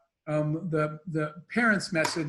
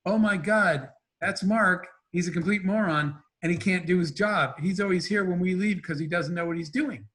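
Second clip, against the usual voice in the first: mortified. Retold or imitated. Employee protesting the boss's promotion rule, mildly mortified. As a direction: replay your mortified protest, lightly heightened. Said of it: "I was, like, mortified".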